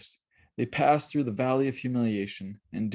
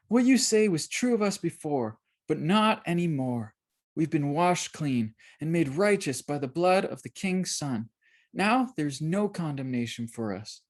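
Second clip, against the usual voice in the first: put-on higher girl's voice, firm and defiant; girl answering her accuser, firm; 5 semitones higher than usual. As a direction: stand up to the old man.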